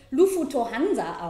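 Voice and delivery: "Lufutohansa" with an extra u after f and an o after t; every consonant in "Lufutohansa" gets its own vowel; Japanese-style pronunciation. Shown as a demonstration. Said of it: "spreche ich Lufutohansa aus".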